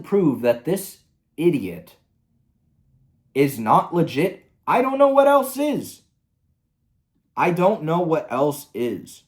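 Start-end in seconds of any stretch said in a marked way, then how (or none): 4.7-6.0 much higher and louder, fully fed up; exasperated outburst. Real, not acted. Ranting about the creator, exasperated outburst. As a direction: throw the line up in disbelief.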